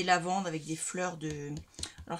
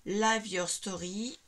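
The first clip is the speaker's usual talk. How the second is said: English words in a strong French accent; slower than usual. Real, not acted. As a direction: read out English sayings with your French accent. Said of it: "Avec mon accent, vous adorez". (accent français en anglais)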